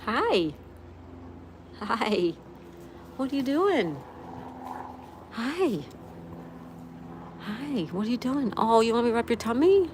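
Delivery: high, excited cooing to a pet. Real, not acted. Streamer greets pet wanting tummy rub, high baby talk.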